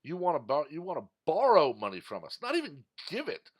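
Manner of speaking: hammed-up Biden voice; mock Biden quote. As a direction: jeer it as if Biden said it. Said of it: "by saying".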